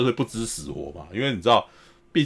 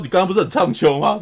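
laughing taunt; 5 semitones higher, 4 dB louder than usual. Retold or imitated. Hero taunting beaten thug.

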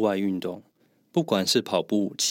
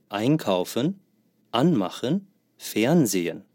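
einkaufen, anmachen, fernsehen each stressed on the first syllable; 重音在前 einkaufen、anmachen、fernsehen; stress on the prefix. Shown as a demonstration. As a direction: hit ein-, an-, fern- and let the rest fall away. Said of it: "分离动词的重音都在前面".

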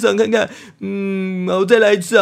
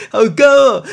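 strained high note; 2 semitones higher, 6 dB louder than usual. Real, not acted.

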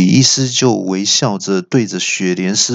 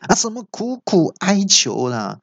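indignant outburst; 2 semitones higher than usual. Acted. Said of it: "气到大叫说".

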